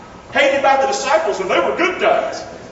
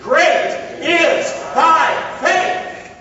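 slow solemn Jesus; 6 semitones higher, much slower than usual. Acted. Voicing Jesus' slow reply.

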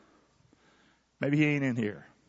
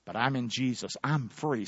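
softer, lower I'm free; quiet; 6 semitones lower, 5 dB quieter than usual. Shown as a demonstration. Preacher showing the church a weak half-said I'm free. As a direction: say it half-hearted and low. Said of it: "Can you say it like you're really free?".

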